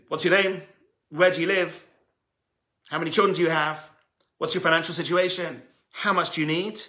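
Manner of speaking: string them along with false hope; the miser quizzing poor visitors, lightly taunting; mock taunting. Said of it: "Almost taunting them".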